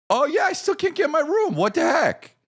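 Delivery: high, fast, exasperated complaint. Retold or imitated. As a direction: squeak it out fast in disbelief. Retold complaint to lady.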